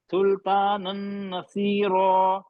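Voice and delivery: सुल्तानन नसीरो drawn out slowly with ghunna; slow tanween recitation. Shown as a demonstration. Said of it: "वही चीज है".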